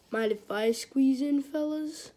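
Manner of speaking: lightly acted eager request, rising at the end; Greg. Kid asking bobsled team for room, lightly acted request. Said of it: "but then Greg's like".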